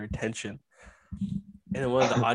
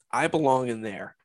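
fake-sounding. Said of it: "but that sounded so fake".

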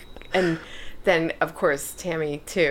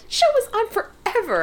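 yelling. Real, not acted. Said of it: "stop yelling at me".

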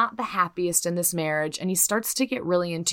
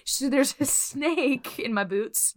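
joke cowboy quote; 6 semitones higher than usual. Retold or imitated. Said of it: "No, that's not what she said".

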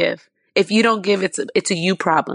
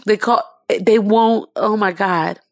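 voice breaking into tears; 4 dB louder, slower than usual. Real, not acted. Breaks down recalling the injustice.

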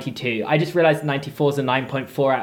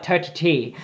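Irish accent with th said as a hard T in "Turty"; 3 dB quieter than usual. Shown as a demonstration. Scottish guest shows how the Irish say thirty, Irish accent. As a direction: demo the Irish way, "Turty T" with a plain T. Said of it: "so they go like".

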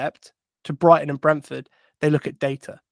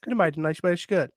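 a hint of a Welsh lilt, softer and quick; Welsh accent; 6 dB quieter, faster than usual. Echoing his own quote, softly in a Welsh accent. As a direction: lightly repeat it in Welsh accent. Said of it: "I'll do the accent".

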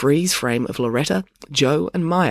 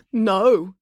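short, higher-pitched refusal; simply stated; 8 semitones higher, 4 dB louder than usual. A narrator's reading. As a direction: refuse without explanation. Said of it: "he stated simply".

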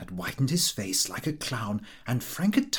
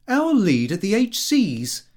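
proud son; 7 semitones higher, 6 dB louder than usual. A narrator's reading. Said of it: "Lupin called him".

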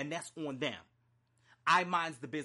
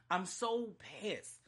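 slow, drawn-out exasperation; so pissed; 3 semitones higher, slower than usual. Real, not acted. Fed up with family hang-ups, pissed. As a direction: stretch "so" with real anger.

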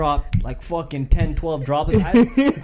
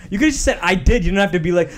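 mock angry; 3 semitones higher, 5 dB louder, faster than usual. Continues mock scolding.

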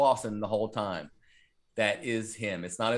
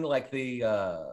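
normal talking voice

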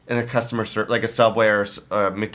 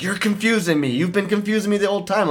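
raised pitch, imitating an irritated clerk; mock snapping; 8 semitones higher than usual. Subway clerk snaps at the customer, imitated irritation. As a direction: snap it back like a fed-up worker. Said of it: "And then she snaps at me".

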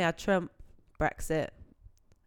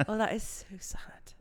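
laughing whisper; 4 dB quieter, slower than usual. Real, not acted. Amused mock sympathy.

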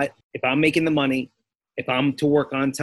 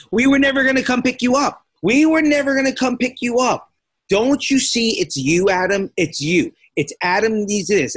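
mock her, pitched way up and gleeful; imitating the wife; 6 semitones higher than usual. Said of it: "all of a sudden I heard".

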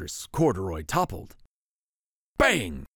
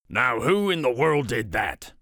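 exclaiming watchman; 3 dB louder than usual. Acted. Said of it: "he exclaimed".

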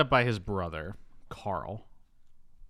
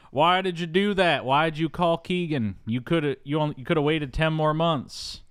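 raised, stretched mock reproach; exasperated scolding; 6 semitones higher than usual. Brother picking Travolta up from prison, exasperated scolding. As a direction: scold him in a higher voice.

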